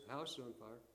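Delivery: low, soft, offhand deadpan; calm, casual, unexcited. Acted. Brother telling busy kitchen about the fire, unexcited. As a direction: report it with no urgency at all. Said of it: "he says in a calm, casual, unexcited voice".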